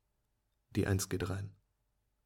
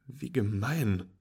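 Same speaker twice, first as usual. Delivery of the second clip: mock outraged call; 5 dB louder, slower than usual. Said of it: "rufe ich".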